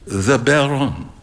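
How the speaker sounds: put-on lightly French old gentleman, smiling; a hint of a smile in the voice. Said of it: "said the old gentleman with a smile".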